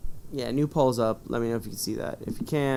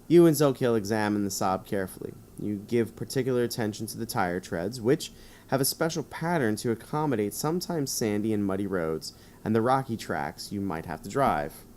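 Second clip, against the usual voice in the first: 1 gamebook narration. Acted. Reads gamebook narration aloud.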